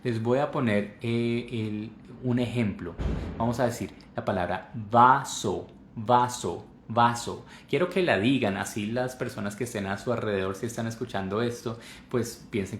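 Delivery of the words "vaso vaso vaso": "vaso" with wide-open a and round o; exaggerated articulation. Shown as a demonstration. Teacher modelling the Spanish word, exaggerated articulation of "vaso". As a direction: articulate both syllables of "vaso" fully. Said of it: "exageren el sonido".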